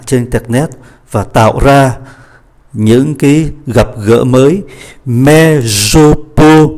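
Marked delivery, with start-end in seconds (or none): 5.0-6.7 "Mais je peux" with "je" and "peux" said through well-rounded lips; rounded French vowel on "peux", shown slowly. Shown as a demonstration. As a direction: push the lips forward into a tight round for "peux". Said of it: "các anh chị tròn môi hai cái, hai cái âm này".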